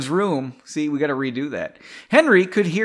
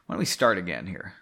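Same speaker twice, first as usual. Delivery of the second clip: whisper; 8 semitones lower, 5 dB quieter, faster than usual. Real, not acted. Aside before rereading.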